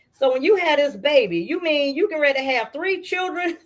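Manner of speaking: high, laughing through the question; half laughing in amused disbelief. Retold or imitated. Sister in Tennessee laughing at the news of three babies in diapers.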